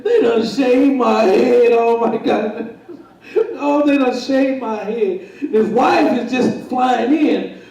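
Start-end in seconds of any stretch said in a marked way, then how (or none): 0.0-2.8 mock crying. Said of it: "he's crying". 3.6-5.2 mock crying. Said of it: "he's crying".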